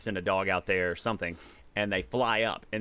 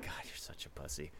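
mocking friends; 6 semitones lower, 17 dB quieter than usual. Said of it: "they're just gonna be like".

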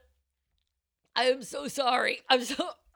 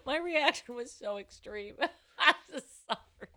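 laughing; 3 dB quieter than usual. Real, not acted. Apologizing through laughter.

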